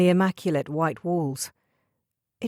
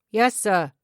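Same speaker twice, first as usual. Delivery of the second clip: raised voice calling back; called out; 3 semitones higher, 5 dB louder than usual. A narrator's reading. Son answering his father across the garden, calling out. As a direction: call it across the garden, dutiful. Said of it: "he called".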